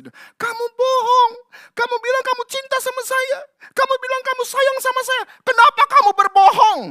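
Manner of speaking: high, loud reproach; hurt accusation. Acted. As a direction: scold him for lying. Delilah accusing Samson.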